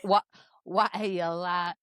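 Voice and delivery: slow, botched Geordie. Retold or imitated. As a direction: have a poor go at a Geordie accent. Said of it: "accent is that for Andy?".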